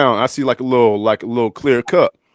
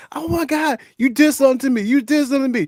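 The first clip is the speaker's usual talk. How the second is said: mock sobbing, very high-pitched crying voice; 14 semitones higher than usual. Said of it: "And she's crying".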